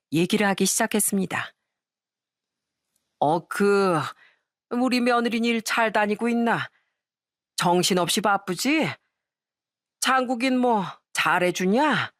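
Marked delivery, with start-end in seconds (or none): 3.2-12.1 lightly voiced tipsy father-in-law; a hint of an older relative in drink. Drinking father-in-law asks his daughter-in-law how she is, lightly tipsy. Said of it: "술만 홀짝홀짝 마시던 시부가".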